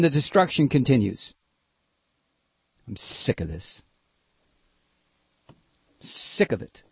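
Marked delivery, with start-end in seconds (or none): 2.9-6.8 much lower and softer, near a breath; real exhaustion with the whole mess; weary disgust. Real, not acted. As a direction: let it sink out in disgust. Disgusted pause in a rant.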